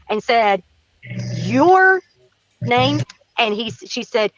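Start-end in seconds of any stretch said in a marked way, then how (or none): 1.3-3.0 higher, louder, sudden surprise on "Your"; imitated startled question. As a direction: jolt up in pitch, then ask her name. Man suddenly recognizes the girl.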